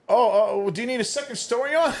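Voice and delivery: high, laughing salesman pitch. Retold or imitated. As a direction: retell the pitch while cracking up. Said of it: "And he goes".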